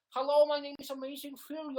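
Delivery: high, loud hammed-up northern greeting; fake Amazing Phil. Streamer posing as a rival YouTuber, loud fake Manchester accent. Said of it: "I can just be fake Phil".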